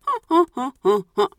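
short breathy huh-huh laughter at her own predicament; nervous laugh. Real, not acted. Laughing alone at the locked gate, nervous chuckles. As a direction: laugh it off, a little helpless.

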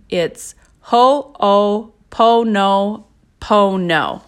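Ho'oponopono said very slowly, each syllable drawn out: ho-o-po-no-po-no; Hawaiian word said carefully. Shown as a demonstration. Teacher introducing a Hawaiian prayer, carefully saying Ho'oponopono slowly. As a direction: spell out Ho'oponopono slowly and deliberately. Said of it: "forgive me for the pronunciation".

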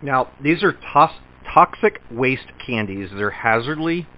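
talking around candy in mouth; words slurred past a candy; mouth full. Real, not acted. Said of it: "I can't even talk".

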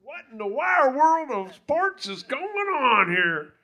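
big booming sports announcer; sportscaster voice. Acted. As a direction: boom it out like a game show host. Playful sportscaster pun on Wire World.

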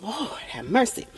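burning chest. Real, not acted. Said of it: "that just burnt my chest going down".

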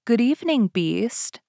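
a sweet, gentle greeting; sweetly. Acted. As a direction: answer sweetly despite the fear. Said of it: "Beauty answered sweetly".

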